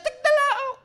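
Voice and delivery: very high loud rooster crow; mock cock-a-doodle crow. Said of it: "the rooster crowed".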